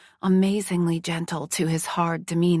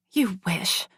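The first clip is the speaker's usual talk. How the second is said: whispered mumble; mumbled. Acted. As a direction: mumble it under breath. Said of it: "I mumbled".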